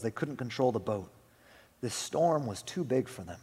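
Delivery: measured story narration; gently dramatic narrator; storybook reading. A narrator's reading. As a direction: read it like a tale to listeners. Reads a children's storybook.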